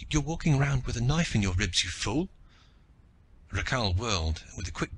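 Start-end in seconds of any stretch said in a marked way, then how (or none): 0.1-2.3 a touch of shaky alarm; shakily. Acted. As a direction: scold him while still shaken. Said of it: "She said shakily".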